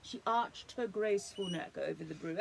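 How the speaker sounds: put-on lively storybook read to a child; animated read-aloud for a little one; reading to children. A narrator's reading. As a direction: tell it like a bedtime picture book. Reads picture book to child.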